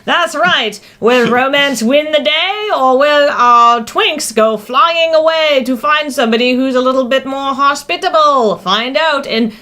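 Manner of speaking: hammed-up movie trailer narrator; trailer announcer voice. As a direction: sell it like a cheesy trailer.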